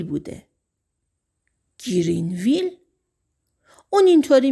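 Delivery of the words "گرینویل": quick questioning rise on گرینویل, mildly surprised; puzzled echo. Acted. Sheriff echoing the town name back, mildly surprised.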